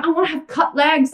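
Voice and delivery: a hint of a dreamy client asking; lightly voiced wish for cut legs; mock wishful client. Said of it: "I hear this all the time".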